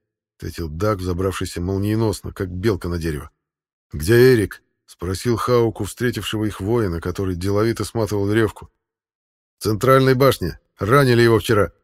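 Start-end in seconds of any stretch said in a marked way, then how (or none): 3.9-4.6 sharp, louder question; urgent demand. Acted. 9.6-11.7 loud, firm report; guard's report. Acted.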